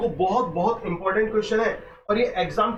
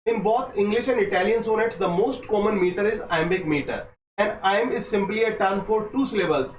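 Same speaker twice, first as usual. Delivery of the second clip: very slow, careful textbook reading; slow dictation reading; much slower than usual. Acted. Teacher dictating exam notes slowly to students. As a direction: lay each phrase down for students to copy.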